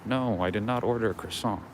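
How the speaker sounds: retelling his own muttered protest; quiet disbelief. Retold or imitated. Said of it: "I'm like".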